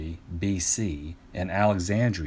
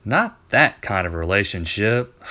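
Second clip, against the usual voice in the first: exasperated correction; 5 dB louder than usual. Acted. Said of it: "Euclid sighed".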